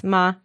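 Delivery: Ma a little high, steady; first tone. Shown as a demonstration. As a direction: hold Ma level above regular pitch. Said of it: "a little bit high".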